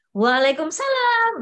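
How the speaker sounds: mock glad, cheerful, happy tone. Acting out someone at home answering a greeting, acting out a cheerful greeting. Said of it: "yang di rumah lebih ceria".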